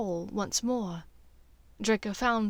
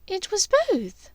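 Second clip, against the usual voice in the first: higher woman's voice, smooth and easy; smoothly; 10 semitones higher, 3 dB louder than usual. Acted. Draco as Narcissa, smoothly covering his lie to Bellatrix. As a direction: glide over the lie. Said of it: "Draco said smoothly".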